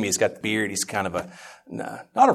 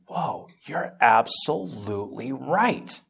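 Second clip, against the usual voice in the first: hushed awe; 5 semitones higher, much slower than usual. Retold or imitated. Retold awed realization, hushed.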